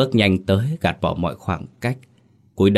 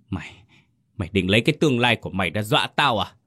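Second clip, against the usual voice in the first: fast, sputtering, tripping over the words; a furious father choking on his own anger; stammering in rage; 2 semitones higher, much faster than usual. Acted. Father stammering at his defiant son, fast and sputtering. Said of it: "lắp bắp".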